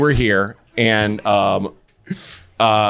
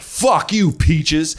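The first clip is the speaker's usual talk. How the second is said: mock yell; 3 semitones higher, much slower than usual. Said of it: "this woman yelled".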